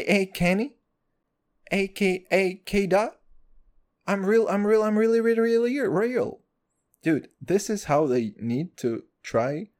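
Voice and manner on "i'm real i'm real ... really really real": Rapper quote. Retold or imitated. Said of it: "by the name of Kendrick Lamar".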